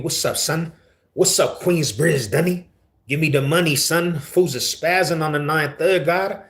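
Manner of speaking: hammed-up, high-pitched New York accent; energetic New Yorker. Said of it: "you talk too energetic".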